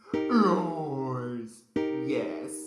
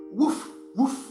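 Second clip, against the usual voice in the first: dog barking; 9 semitones higher, 5 dB louder than usual. Pretend.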